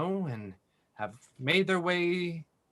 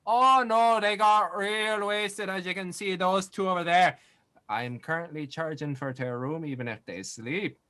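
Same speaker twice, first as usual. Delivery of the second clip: loud innkeeper voice; 4 semitones higher, 4 dB louder than usual. Acted. The speaker's jolly loud voice.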